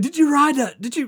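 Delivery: high, loud disbelieving question; imitated incredulous cop. Cop questioning the mower rider, imitated incredulity. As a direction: ask as if you can't believe it. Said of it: "he had to say it out loud".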